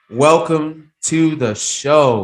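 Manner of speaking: slow, loud announcer welcome; drawn-out booming welcome to the show; big welcome. Real, not acted. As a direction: roll it out like a show host. Host greets guest on air.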